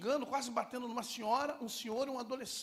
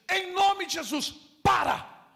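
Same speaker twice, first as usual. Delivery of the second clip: loud, slow, higher rebuke; commanding shout; 10 semitones higher, 15 dB louder, slower than usual. Retold or imitated. Pastor ordering the angry man to stop, loud commanding shout.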